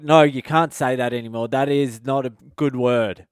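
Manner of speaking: mildly stern, firm telling-off; pretend-angry dad. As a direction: put on a touch of parental anger. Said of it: "had to pretend I was angry".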